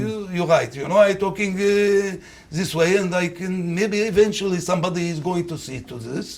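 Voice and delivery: mixed French and Arabic accent; a French-tinged Arabic accent. Shown as a demonstration. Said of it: "sort of French and, uh, Arabic".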